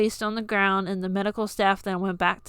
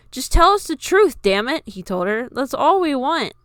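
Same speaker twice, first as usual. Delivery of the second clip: angry demand; 5 semitones higher, 6 dB louder than usual. A narrator's reading.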